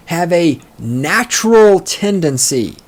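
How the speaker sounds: natural stretched and weighted; stress on natural. Shown as a demonstration. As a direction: hit the word natural. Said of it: "emphasis on natural".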